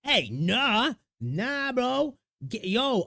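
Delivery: playful imitation of a Jamaican accent. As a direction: toss off a quick Caribbean "nah, bro". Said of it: "Nobody ever wants a Caribbean accent".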